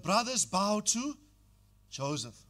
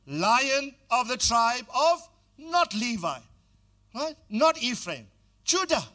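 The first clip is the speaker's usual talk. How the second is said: loud, slow, rising proclamation; preacher declaring Jesus came from Judah; preaching climax; 5 semitones higher, 7 dB louder than usual. Real, not acted. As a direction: build it to a shout of Judah.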